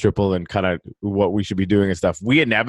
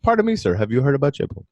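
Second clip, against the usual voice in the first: Marvin the Martian voice; faster than usual. Acted. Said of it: "say it in Marvin the Martian's voice".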